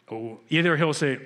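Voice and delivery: ordinary delivery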